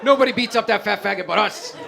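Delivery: hammed-up tough-kid protest, voice leaping high; mock indignant yell. Block kids defending their victim, mock indignant yelling.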